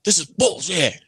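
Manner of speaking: high-pitched mock outrage; angry outburst. Customer protesting to the night manager, outraged. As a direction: imitate an irate customer exploding, only mildly.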